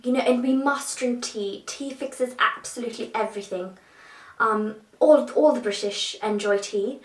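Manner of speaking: lightly put-on proper English accent; tea-loving Brit caricature accent; mock posh British accent. Sending up British cliches about tea, mock posh accent. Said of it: "not all of us talk like that".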